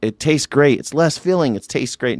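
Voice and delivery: mock the beer commercial girls arguing; a light parody of the old beer ad; bikini beer ad girls. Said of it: "girls in bikinis arguing about beer".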